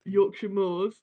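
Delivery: lightly put-on Yorkshire accent; name it in a mock Yorkshire voice; a hint of Yorkshire. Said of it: "is that Yorkshire?".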